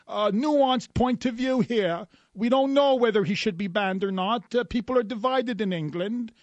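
a lightly voiced smug Piers Morgan; Piers Morgan impression. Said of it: "I'd love to ask Piers Morgan".

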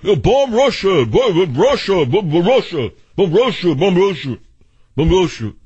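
high-pitched mock war chant; mock screaming. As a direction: mimic hawks screaming the slogan over and over. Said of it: "are suddenly screaming".

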